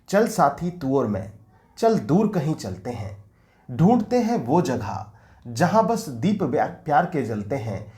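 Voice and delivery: measured, lilting verse reading; poem recitation. Acted. Teacher sharing his Hindi version of the love song, poem recitation. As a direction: recite each line with falling ends and short pauses.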